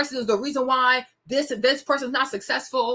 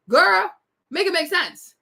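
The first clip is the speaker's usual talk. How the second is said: put-on "Girl" burst out louder and higher through a laugh; laughing repeat; 5 semitones higher, 3 dB louder than usual. Shown as a demonstration. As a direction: laugh out "Girl", then finish it.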